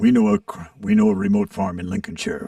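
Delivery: put-on, failed attempt at vintage radio announcer voice. Talking about War of the Worlds, you try a failed Orson Welles impression. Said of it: "I don't have the Orson Welles voice".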